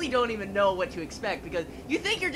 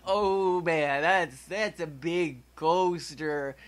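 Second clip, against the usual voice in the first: little driver nervous; 5 semitones lower, much slower than usual. Pretend. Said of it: "our little driver looks up and goes".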